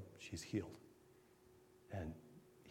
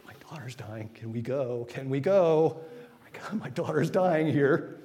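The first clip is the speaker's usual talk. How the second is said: desperate father; 7 dB louder than usual. Retold or imitated. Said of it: "he's going".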